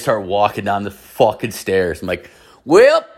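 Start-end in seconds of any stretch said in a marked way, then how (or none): 2.6-3.1 high, loud rising "well"; storyteller facing five men coming downstairs, high rising yelp; resigned mock yelp. Send it shooting up high and loud. Retold reaction to advancing men.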